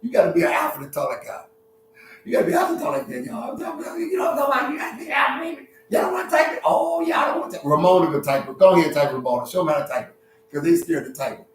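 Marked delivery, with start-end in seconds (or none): 2.2-7.7 high-pitched teasing squeal; playful falsetto goading; mock high voice. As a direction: tease the audience in a high, put-on voice. Teasing viewers who won't type.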